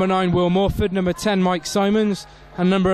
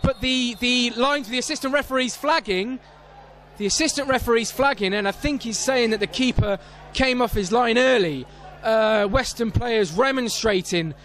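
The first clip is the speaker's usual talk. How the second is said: urgent commentary; 5 semitones higher than usual. Real, not acted. Commentator explaining the assistant referee's flag, excited and urgent. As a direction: keep it high and urgent as events unfold. Spots flag right after save.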